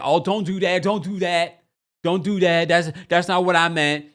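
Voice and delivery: mock protest in quick repeated pleas; flustered protest. Acting out man's flustered protest.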